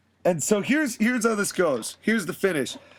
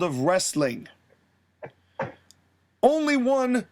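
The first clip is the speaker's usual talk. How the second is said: cocky wrestler promo. Retold or imitated.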